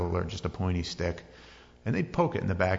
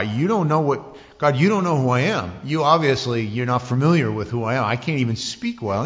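mock exasperated Moses; arguing Moses; 2 semitones higher, 5 dB louder than usual.

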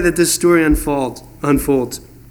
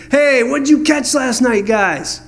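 calling out; 5 semitones higher than usual. Retold or imitated. Jesus on the shore calling to the fishermen, friendly shout. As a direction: call out to the boat, casual. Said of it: "calls out and he says".

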